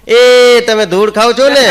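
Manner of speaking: loud, high call across the room; child's shout. Retold or imitated. A son shouting at his aunt as she arrives, loud high yell. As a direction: blurt it out as a startled kid yelling. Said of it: "મારા છોકરા રાડ પાડી કે".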